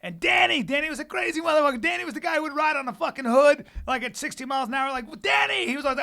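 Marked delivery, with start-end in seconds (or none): 5.2-5.7 high retold crowd cheer; mock rowdy greeting; excited hail. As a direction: call out the party legend's name. Crowd hailing the wild friend.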